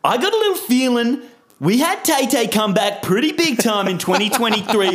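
lightly hammed-up hype announcer; big swaggering podcast intro. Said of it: "forgets how to do the voice".

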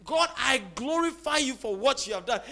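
moderately lifted voice of praise. Acted. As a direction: proclaim thanks out to God. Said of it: "cry with a louder voice and say".

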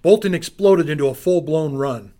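intense action narration. A narrator's reading. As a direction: build the chaos loud. Narrated chase climax.

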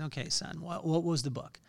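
soft, patient coaxing of an upset son; calm the boy down quietly; soft-spoken dad calming his son; gentle. Retold or imitated.

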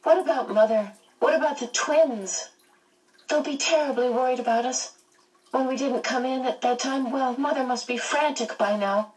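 high-pitched worried fretting; anxious. A narrator's reading. Meg fretting about her family, in a high, anxious voice. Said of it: "Meg asked anxiously".

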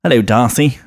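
lightly camp English "Darcy", no R sounded; camp English accent. Shown as a demonstration. Showing co-hosts the English version, camp English accent. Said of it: "bit more camp in ... in English".

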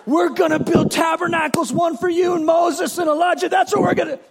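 high, loud, rushing Peter; excited Peter. Retold or imitated. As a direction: blurt it out in a rush of excitement. Peter excitedly planning tabernacles.

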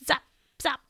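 short, sharp zaps; ray-gun sound effect; zapping noise. Acted. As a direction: fire off two quick zaps. Voicing the zapper firing.

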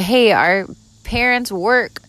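put-on high pleading little kid voice. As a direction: beg like a small child. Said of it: "your little kid voice".

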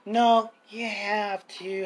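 put-on slow, talking-down-to-a-child voice; mock condescending teacher. Coworkers talking down to him like a kid, condescending. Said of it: "they had that condescending voice".

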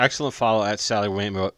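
tongue trips over "Maywe-", words slurred together. Real, not acted. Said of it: "I've been drinking excessively".

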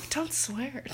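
playful gasping reprimand; mock shock. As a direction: pretend to be scandalized. Mock shock at friend's swearing.

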